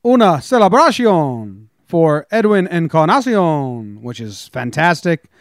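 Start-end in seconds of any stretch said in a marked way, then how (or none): 0.0-4.0 slow announcer home run call. Retold or imitated. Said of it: "Edwin's home run call is".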